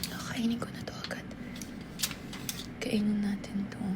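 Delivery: fast hushed whisper. Real, not acted. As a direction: whisper it quickly and secretly. Whispering over the food.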